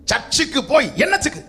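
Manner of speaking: hammed-up complainer rising in pitch; mocking complaint. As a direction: imitate people grumbling about church. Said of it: "அநேகர் வாயிலிருந்து வருகிற வார்த்தை".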